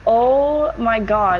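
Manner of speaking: slow, drawn-out oh my God; stunned oh my god. Retold or imitated. Realizing she drank dirty water, slow dismay. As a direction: let the realization sink in slowly. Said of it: "I was like".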